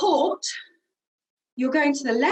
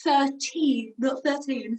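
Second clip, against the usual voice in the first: "Thirty" stressed and set against "thirteen"; slower than usual. Shown as a demonstration. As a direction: make "Thirty" stand apart from "thirteen". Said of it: "thirty star jumps".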